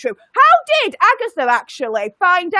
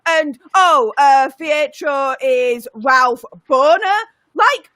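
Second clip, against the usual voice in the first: full rant; 3 semitones higher than usual. Acted. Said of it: "I want full Emperor Palpatine here".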